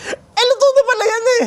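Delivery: put-on very high, strained, whiny old vendor voice; angry vendor. Vendor realizing the noodles were already cooked, high whine. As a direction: squeal it like an outraged old shopkeeper. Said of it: "Pagka ganun niya".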